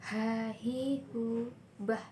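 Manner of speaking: "ha, hi, hu, bah" with h from mid throat. Shown as a demonstration. Teacher giving examples of the letter Ha, mid-throat h. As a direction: bring each h of "ha, hi, hu, bah" from the middle of the throat. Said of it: "dikeluarkan dari tengah tenggorokan".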